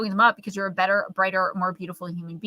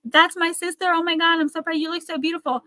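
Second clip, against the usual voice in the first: higher, lightly gushy imitation; mock proud gushing; 7 semitones higher than usual. Imitating a relative's public praise, lightly gushing. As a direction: coo the praise a little too sweetly. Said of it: "but just say".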